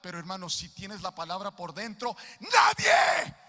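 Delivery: fiery pulpit climax, building to a shout; full-force preaching. Acted. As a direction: preach it to the rafters.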